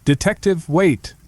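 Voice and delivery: Boston-tinged dummy calls out; puppet voice yelling. Acted. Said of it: "he yelled to me in the puppet's voice".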